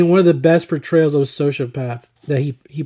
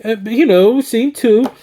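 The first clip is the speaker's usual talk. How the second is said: lampoon a pompous critic, pitched way up; snooty film snob; 5 semitones higher than usual. Retold or imitated. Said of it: "like, obnoxious film snobs".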